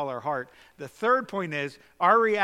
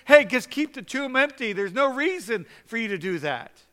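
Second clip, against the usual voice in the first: higher mocking voice of a doubter; mock doubting Christian; 5 semitones higher, 5 dB louder than usual. Preacher mimicking Christians who refuse a miracle, mock high voice. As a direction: poke fun at timid believers. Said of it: "and they're saying".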